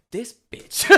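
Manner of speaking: high, incredulous, breaking into laughter; laughing outrage. Retold or imitated. Neighbour reacting to being doxed, laughing disbelief. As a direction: squeeze it out through a laugh.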